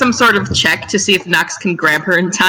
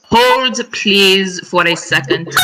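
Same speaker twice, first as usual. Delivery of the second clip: lightly voiced exasperated mother; annoyed mom voice. Knox halting the three remaining party members, annoyed mom voice. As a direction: hold everyone up with measured mild annoyance. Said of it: "very annoyed mom voice".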